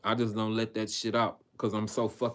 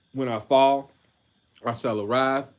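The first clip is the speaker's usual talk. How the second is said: "When I fall, I shall arise" thrown out louder, like a battle cry; proclaimed; 3 semitones higher, 7 dB louder than usual. Acted. Preacher reading Micah aloud to his brothers, loud and fervent. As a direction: lift "fall" and "arise" with force. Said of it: "I'm rereading that".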